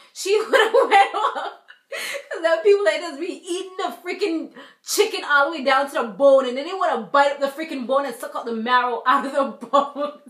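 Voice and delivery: words pushed out through real laughter; can't stop laughing at the thought of it; laughing while talking. Real, not acted. Telling viewers about mama's reaction, cracking up laughing.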